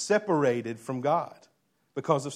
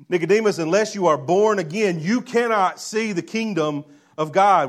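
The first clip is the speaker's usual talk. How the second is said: proclaiming Jesus; 3 semitones higher, 6 dB louder than usual. Acted. Preacher voices Jesus' bold declaration.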